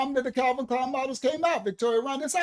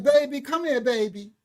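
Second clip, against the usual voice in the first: mimicking old black woman; 2 semitones higher, 3 dB louder than usual. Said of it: "I'm mimicking the old black woman".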